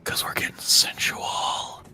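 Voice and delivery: slow hammed-up sensual whisper. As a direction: breathe it slowly. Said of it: "Let me whisper in your ear".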